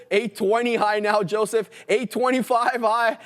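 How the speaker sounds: high-pitched, excited price calling; auctioneer voice. Real, not acted. Trader calling new highs to Joseph, auctioneer voice. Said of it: "I got my auctioneer voice on here".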